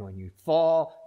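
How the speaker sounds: that when you FALL rises high and loud; loud emphatic fall. Acted. Preacher to congregation, when you fall, loud emphatic. Preacher stresses falling, then echoes softly.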